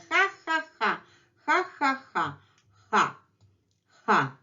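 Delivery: ha, ha drilled high and breathy; letter ha sounds. Shown as a demonstration. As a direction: repeat ha, ha like a drill. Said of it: "letter ha".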